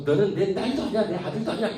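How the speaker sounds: high, loud mock outburst; angry parent. Furious parents disowning their child, hammed-up high anger. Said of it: "화가 나가지고".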